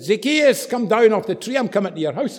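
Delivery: mild acted call-out. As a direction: call someone down, lightly acted. Jesus calls man out of tree.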